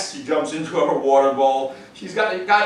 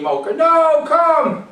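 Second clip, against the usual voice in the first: 1 mock yell; 13 semitones higher, 5 dB louder, much slower than usual. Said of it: "I didn't yell and scream".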